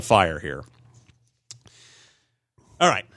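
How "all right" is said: high, fast radio host intro; bright show-host announcement; announcer voice. Acted.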